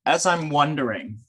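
measured recital with long pauses; reading own text. Real, not acted. Guest reads own text to listeners with eyes closed, recital. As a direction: read it out in spaced phrases, drawing listeners in. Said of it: "I'm gonna read it".

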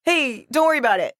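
misquote it playfully, voice jumping up; botched movie quote. Retold or imitated. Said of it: "trying to quote the end of Chinatown".

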